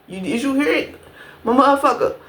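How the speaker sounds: ordinary talk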